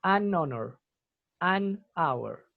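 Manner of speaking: "An honor, an hour" with n into vowel, no h; linking N. Shown as a demonstration. Teacher modelling for students, "An honor, an hour" with linking n. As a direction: say "An honor, an hour", silent h after n. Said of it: "se le agrega A N".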